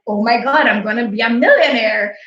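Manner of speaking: teary, choked-up exclamation; blurting it out through tears; crying happy disbelief. Retold or imitated. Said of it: "And I started bawling".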